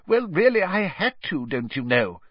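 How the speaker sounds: high-pitched, testy Minister; irritable. A narrator's reading. Minister defending himself to the press, irritable. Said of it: "said an irritable Fudge".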